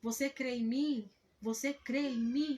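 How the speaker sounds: slow, solemn divine question; a lightly voiced God asking slowly; unhurried voice from above, barely changed. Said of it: "ouvi uma voz assim de Deus falando".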